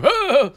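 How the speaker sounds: mock sensitive flinch sound; squeamish oh. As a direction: yelp as if touched somewhere sensitive. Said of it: "makes me go".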